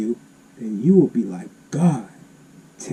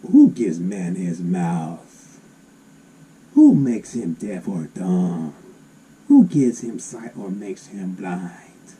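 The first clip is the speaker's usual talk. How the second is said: God's voice; 5 semitones lower, slower than usual. Acted. Preacher voicing God.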